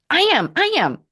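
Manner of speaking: bursts out high and loud, almost squealing; a sudden joyful realisation shouted high; excited high cry. Retold or imitated. Asked by the inner voice, she answers in an excited high cry. Answering who's your best friend.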